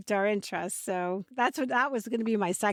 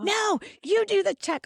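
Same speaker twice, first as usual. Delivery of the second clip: pleading laughing protest; 10 semitones higher, 5 dB louder than usual. Retold or imitated. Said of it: "He would be like".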